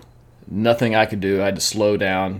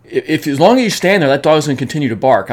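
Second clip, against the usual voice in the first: mock dog owner; 7 semitones higher, 9 dB louder, faster than usual. Dog owner's excuse retold.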